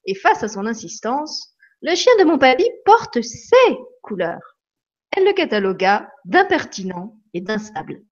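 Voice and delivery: lively read-aloud with swinging tune; story reading. Acted. Reading from the book to live viewers, expressively. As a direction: read the anecdote to the audience with expressive ups and downs.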